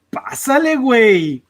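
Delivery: high bouncy pásale, güey; teasing Mexican slang; playful Spanish phrase. Shown as a demonstration. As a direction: say it like teaching kids a fun phrase. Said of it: "I am the one who teaches".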